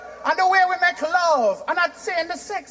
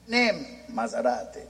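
much lower, romantic Italian drawl; mock Italian accent, crooning car names; 7 dB quieter than usual. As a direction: purr the names like a lover. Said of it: "Italian car, just like the Italian".

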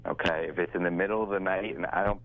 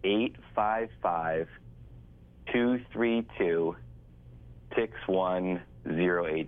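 slow dictation; slower than usual. Real, not acted. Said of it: "One more time. Ready?".

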